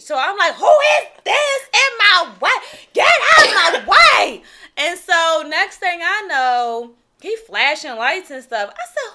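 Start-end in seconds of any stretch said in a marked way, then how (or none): 0.5-4.4 louder, higher angry yell; road rage yell. Retold or imitated. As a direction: yell at the car blocking you. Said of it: "I got road rage".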